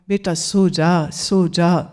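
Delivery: put-on slow, hushing mother to child; mother settling her weeping daughter, slow and soothing; soothing lullaby tone. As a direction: soothe her gently to sleep. Mother lulls crying Meera.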